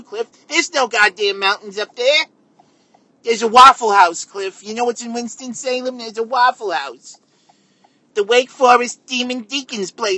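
high, shrill-free indignant squabbler. Acted. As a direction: raise the voice high and argue furiously. Acted quarrel with grandfather character.

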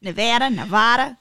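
Nevada first as ne-VAD-a, then Nevada as ne-VAH-da; pronunciation comparison. Shown as a demonstration. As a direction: alternate short "a" and broad "ah" in Nevada. Comparing both pronunciations aloud.

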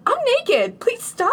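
high-pitched mock panicked plea; retold panic. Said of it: "because I'm panicked".

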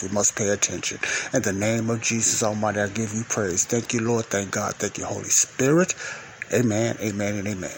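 earnest prayer in running phrases; spoken prayer. Real, not acted. Leads a prayer.

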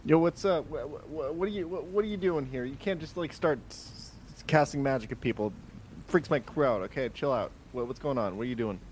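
flustered captain. Acted. Captain confronts woman in character.

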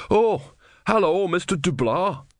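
startled and guilty; guilty startled novice. Acted.

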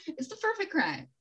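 a hint of gloating villain; put-on villain voice. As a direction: savour the words like a smug villain. Repeated line in put-on voice.

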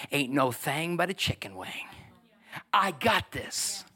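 lightly voiced God, slow and easy at the end; God, unfazed. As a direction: shrug off a huge threat, stretching the last words. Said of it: "and God's saying".

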